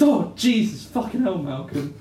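acted-out fright; startled outburst. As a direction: jolt on the first words, then settle. Acting a character startled by Malcolm.

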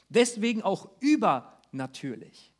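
slow, with "übernatürlich" weighted; "übernatürlich" slowed and pressed; stress on übernatürlich. Shown as a demonstration. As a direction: land firmly on "übernatürlich". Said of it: "die Betonung von übernatürlich sehr wichtig".

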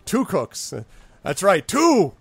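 high, loud gloating. Acted. Goblins crowing over their deal, high and gleeful. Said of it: "slapping him on the back".

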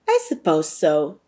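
a stiff, cold reply; stiffly. Acted. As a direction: say it stiffly, unwilling.

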